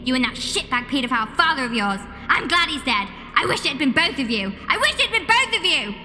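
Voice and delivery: shrill falsetto tirade; hammed-up maternal fury; furious mother. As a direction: rant in a very high put-on mum voice, climbing at the end. Mother's furious rant at Jack.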